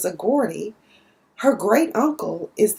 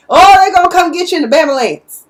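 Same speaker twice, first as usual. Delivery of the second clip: exaggerated Southern country accent; 7 semitones higher, 9 dB louder, faster than usual. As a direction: say "Bama Lance" like a Southern country ambulance joke. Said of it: "the equivalent of saying".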